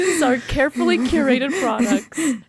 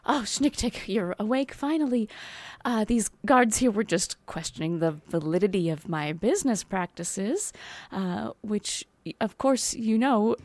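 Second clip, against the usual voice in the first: low, soft, smooth-talking merchant; a hint of a smarmy saleswoman; sly merchant voice; 4 semitones lower, 7 dB quieter than usual. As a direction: ooze innocence to talk past the guards. Player voices her character to guards.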